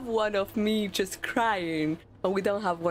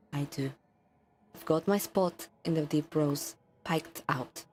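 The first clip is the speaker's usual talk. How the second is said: letter reading. Acted. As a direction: read the journal page aloud, steady and solemn. Reading a warden's journal letter aloud.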